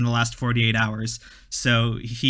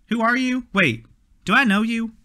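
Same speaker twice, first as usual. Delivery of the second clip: confused surprise; 10 semitones higher than usual. Acted. Alan confused by stranger.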